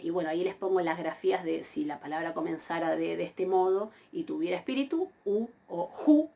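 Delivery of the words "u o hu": "u o ju": plain oo, then aspirated hoo; smooth then rough breathing. Shown as a demonstration. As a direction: slowly contrast bare "u" with h-initial "ju". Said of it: "con el espíritu".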